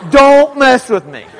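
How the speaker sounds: loud, high mock threat through a laugh; hammed-up playground bravado; laughing tough talk. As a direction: warn them off, laughing. Punchline of kid's threat.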